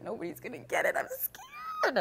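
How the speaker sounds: high crying wail on scared; retold panic. Retelling her nerves at early access launch. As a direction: whimper it in mock panic. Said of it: "I'm like".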